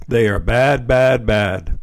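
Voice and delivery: lightly voiced father warning his son off; stern dad.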